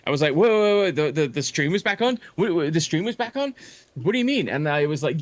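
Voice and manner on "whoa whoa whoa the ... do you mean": mock surprise. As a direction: fake astonishment to sell the gaslight. Feigned shock to bait him.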